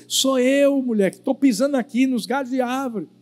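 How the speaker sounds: lightly acted husband explaining himself; husband reassuring wife. Acts the husband answering.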